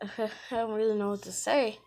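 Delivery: acted awkward chuckle into the line; playing an embarrassed apology with a little laugh; sheepish laugh.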